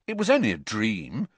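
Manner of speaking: reassuring, firm comfort; steady him with confidence; bracing. Acted. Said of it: "said Ron, bracingly".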